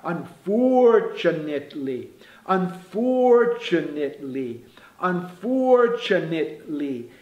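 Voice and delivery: very slow, syllable-by-syllable "unfortunately"; devagar. Shown as a demonstration. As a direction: stretch "unfortunately", leaning on "for". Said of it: "se você faz devagar". ("unfortunately" bem devagar, sílaba por sílaba)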